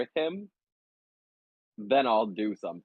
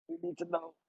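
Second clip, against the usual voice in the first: high pleading; 7 dB quieter than usual. Acted. Character urging, high and soft.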